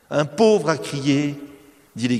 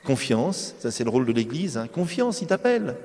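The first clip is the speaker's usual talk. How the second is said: gentle encouragement. Retold or imitated. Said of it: "la foule lui dit".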